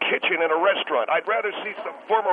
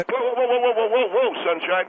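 indignant interruption; 4 semitones higher, 3 dB louder than usual. Real, not acted. Guest cuts off host's sign-off.

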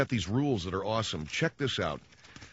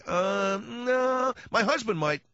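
a high woman's voice, politely declining; high mock woman's voice; 11 semitones higher, much slower than usual. Woman refusing the autograph, high and polite. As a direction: pass on it lightly, high and polite.

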